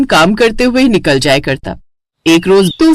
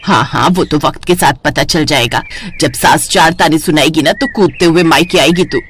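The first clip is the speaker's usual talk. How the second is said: teasing mother; 5 semitones lower than usual. Acted. Mother mocking daughter's vow, lower teasing voice.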